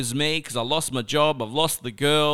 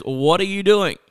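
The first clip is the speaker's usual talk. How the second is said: raised, sharp question from the brother; stern demand; 6 semitones higher, 5 dB louder than usual. Retold or imitated. Brother confronting him in the vineyard, raised and stern. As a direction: demand it like you caught him red-handed.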